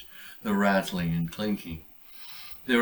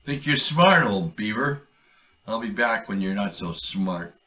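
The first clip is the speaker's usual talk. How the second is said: a hint of a grumbling trapper, loud at first; lightly voiced trapper; 4 dB louder than usual. Trapper muttering a threat at the beaver.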